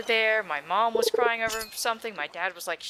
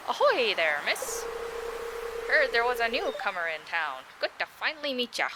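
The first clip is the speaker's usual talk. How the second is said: Willy voice; 4 semitones higher than usual. Acted. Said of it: "the voice I gave him".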